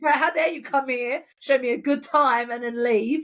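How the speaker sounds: slow, playful scolding; mock outrage, drawn out slowly; mock threatening. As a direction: retell it as a pretend threat. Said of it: "they threatened us".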